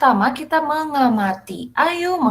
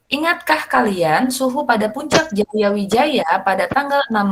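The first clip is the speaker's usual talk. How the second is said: clear, careful model reading for the class; teacher reading the passage aloud to show pupils how to read it. Shown as a demonstration. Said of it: "Nih, Ibu akan membacakan".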